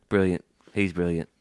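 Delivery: approving comic Brit; mock British accent. Host as British executive praises colleague, British accent.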